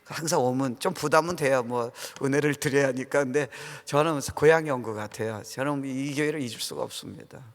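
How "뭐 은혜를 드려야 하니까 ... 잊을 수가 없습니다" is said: ordinary delivery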